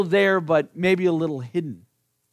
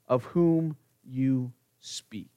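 slow, hushed whisper to close; whispering the last words of the denial; 4 semitones lower, 4 dB quieter, much slower than usual. Acted. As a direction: let Peter's denial fade into a whisper. Peter's denial trailing off.

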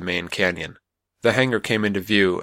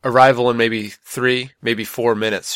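calling out; 3 semitones higher, 4 dB louder than usual. Acted. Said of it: "she called out".

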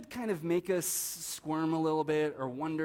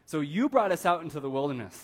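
grumbling Israelites; 3 semitones higher, 6 dB louder than usual. Retold or imitated. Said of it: "they say to Aaron and to Moses".

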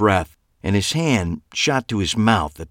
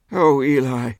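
theatrical dandy; 9 semitones higher than usual. A narrator's reading. Clive leaning on the car, dramatic high theatrical voice. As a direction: sigh it out grandly.

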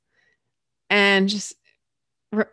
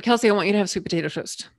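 quicker coach quote; faster than usual. Retold or imitated. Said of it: "So she said".

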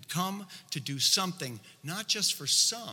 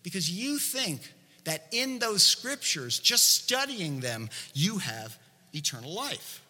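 raised pitch, pointed accusation; preacher voicing a mild scolding; acted stern rebuke; 4 semitones higher than usual. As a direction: come down hard on them, slowing toward the end. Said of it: "he's really coming down hard on them".

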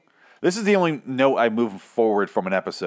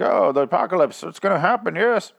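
high, overdone newscaster voice; mock newscaster; 7 semitones higher than usual. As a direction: ham up a dramatic news anchor. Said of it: "they're like".

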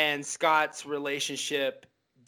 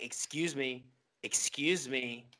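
soft, muttered excuse me; imitating an annoyed partner muttering, much softer; under his breath; 5 semitones lower, 8 dB quieter than usual. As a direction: mutter it while setting the table. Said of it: "under his breath".

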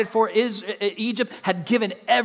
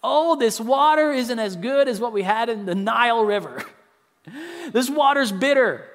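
whiny, slightly higher mock gripe; mock complaining; 4 semitones higher, 3 dB louder than usual. Preacher imitating Israelites griping about water, mock whiny. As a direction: pout like a spoiled traveller about the water. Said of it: "it leads them to complain".

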